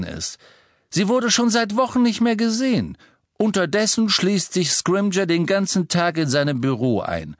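höher gesprochen, besorgter Vater; erzählt düstere Gerüchte; Mr Weasley, besorgt. Acted. Mr Weasley über die Angst. (Mr Weasley erklärt Ron die Angst, sorgenvoll)

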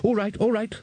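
high-pitched, resigned concession; exasperated, backing off; weary giving in. A narrator's reading. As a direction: drop the questioning before it all unravels. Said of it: "voice of a man who knows".

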